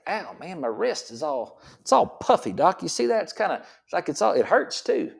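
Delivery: hammed-up moan about a puffy wrist; whiny patient.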